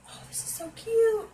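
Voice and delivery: high, squealing delight over a cute find; excited squeal. Real, not acted. Opening a gift box.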